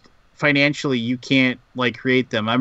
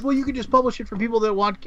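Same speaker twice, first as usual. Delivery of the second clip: lightly dopey, higher voice; dumb guy voice; 9 semitones higher, faster than usual. Retold or imitated. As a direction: play him a bit dim and dopey. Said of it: "I'm giving the designer a dumb guy voice".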